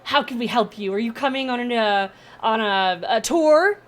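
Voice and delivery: very high, loud squeal of welcome; eager gnome. Acted. Gnome welcoming the party on a tour, squealing. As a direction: bounce with excitement at guests.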